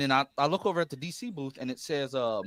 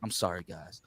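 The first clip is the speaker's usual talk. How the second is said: low, soft imitated apology; retold apology, much quieter and lower; sheepish apology; 8 semitones lower, 12 dB quieter than usual. Retells actor's sheepish apology to fans.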